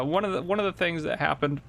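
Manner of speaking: ordinary delivery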